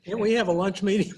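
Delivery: amused, with a laugh. Real, not acted. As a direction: joke it out through laughter. Laughing joke about lunch.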